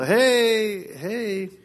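high loud call across the street. Retold or imitated. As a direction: hail them from the car window. Calling out to kids by road.

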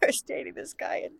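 squeezed out high through real laughter; trying to talk while cracking up; breathless with giggles; laughing. Real, not acted. Cracking up while starting funny story.

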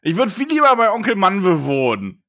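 high, loud sulky insults; bratty teen tantrum. Pretend. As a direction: snap at dad like a teen. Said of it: "Ich bin Glaurung".

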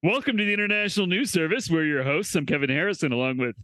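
announcer-style show opening; host intro. Acted. Opening the podcast as a news host. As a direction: welcome listeners like a news anchor.

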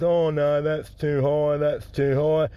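put-on cleft-lip speech impediment; cleft palate voice. Customer refusing the nut seller's price, cleft palate voice. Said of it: "This bloke got a cleft palate and a hair lip".

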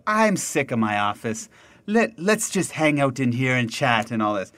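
lightly faked French accent; a vague attempt at a French saleswoman's accent; muddled French accent. French saleswoman chatting up buyers at the bar, muddled French accent. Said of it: "I don't know what that accent is".

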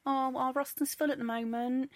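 mocking the producer who turned her down; brush-off producer. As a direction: fob her off politely. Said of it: "And he went".

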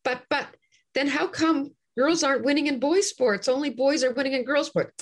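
mock exasperated arguing; protesting objector. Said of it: "you can't argue with the kind of arguments".

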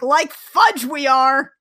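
a hammed-up, slow refusal; defiant retort. Jem refusing to leave.

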